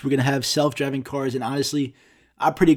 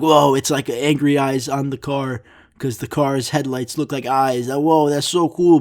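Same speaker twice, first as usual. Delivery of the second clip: lightly voiced excited little kid; imitating a five-year-old. Ranting vlogger imagines himself at five seeing angry-eye headlights, mock wonder. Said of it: "if I was five years old".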